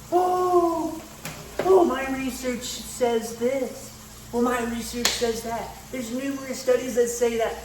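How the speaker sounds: high, slow whiny nerd voice; mock the smug science guy; mocking know-it-all voice. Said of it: "in the comments talking like".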